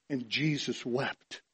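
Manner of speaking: low, soft and slow; solemn. Real, not acted. Preacher reciting the verse on Christ's tears, solemn. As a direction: let it drop, hushed and slow.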